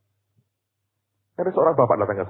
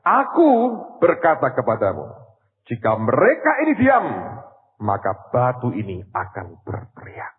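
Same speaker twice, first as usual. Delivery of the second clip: dramatic scripture quote. Acted. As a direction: proclaim it like a prophet. Preacher quoting Jesus, dramatic. (suara berkhotbah lantang dan tinggi)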